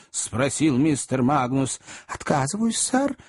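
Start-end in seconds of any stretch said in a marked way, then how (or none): 2.1-3.2 indignant refusal. A narrator's reading. Acted quarrel, Pickwick refuses.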